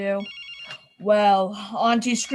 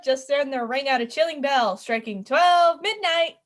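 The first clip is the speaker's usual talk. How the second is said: pointed repeat; 3 semitones higher than usual. Acted. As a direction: say it again with emphasis so the crew hears. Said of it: "I said".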